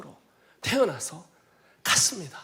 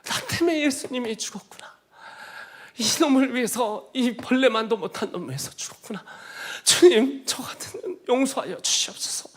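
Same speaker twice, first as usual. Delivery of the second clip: higher, tearful confession that breaks to a whisper; retold sobbing prayer; 5 semitones higher than usual. Preacher recounting his prayer on the church floor, tearful and rising. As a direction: relive the wailing repentance. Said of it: "오열하면서".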